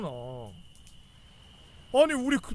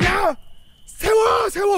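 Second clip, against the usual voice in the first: much higher and louder barked stop command; shouted order; 10 semitones higher, 9 dB louder, much slower than usual. Retold or imitated. Military police halting the convoy, shouting stop. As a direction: yell it like an MP halting trucks.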